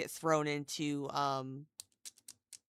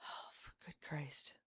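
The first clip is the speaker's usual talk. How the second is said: whisper; 14 dB quieter than usual. Real, not acted. Pained whisper under cramps.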